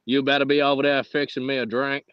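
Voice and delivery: mock Texan twang; Texan accent. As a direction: order a drink like a Texan. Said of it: "we just both do Texan".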